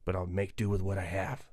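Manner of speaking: hoarse, under the weather voice; sick voice. Real, not acted. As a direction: croak through a sick, raspy voice. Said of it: "excuse my voice".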